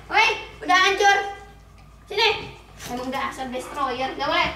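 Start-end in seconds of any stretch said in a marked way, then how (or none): 0.1-2.6 higher, louder exclamation over the wreck; surprised outcry. Real, not acted. Owner finds the toy torn up, surprised outcry. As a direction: react to the shredded toy.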